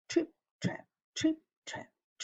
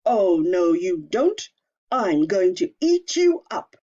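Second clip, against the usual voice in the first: troll voice; 9 dB louder than usual. Acted. Troll threatens biggest goat.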